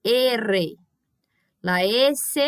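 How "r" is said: R said with a long trilled tongue; rolled Spanish R. Shown as a demonstration. Teacher showing the Spanish double R to her class, trilled. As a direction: let the tongue trill hard on R. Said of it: "a língua chega a tremer".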